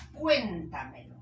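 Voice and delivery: cuéntamelo punched hard on "cuén"; stress on first syllable. Shown as a demonstration. Teacher giving an example word, "cuéntamelo" stressed on cuén. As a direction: hit the opening of "cuéntamelo", let the rest fall away. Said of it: "¿Dónde lleva la tilde?".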